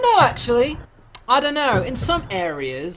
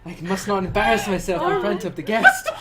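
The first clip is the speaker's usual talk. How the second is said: anxious uptight host; 2 semitones higher, 4 dB louder than usual. Retold or imitated.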